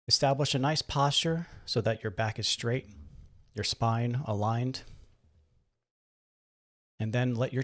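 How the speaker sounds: guided meditation. Acted. Guide helps listeners settle into the chair and breathe, calm meditation voice. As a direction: gently talk them into relaxing.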